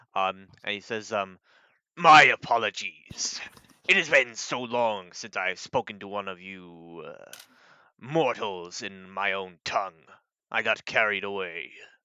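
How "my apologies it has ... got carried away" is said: booming, loud, guttural bellowing dragon voice from throat. Voicing a dragon who switches to Common: deep bellowing guttural voice. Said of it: "deep bellowing, kind of, like, guttural common".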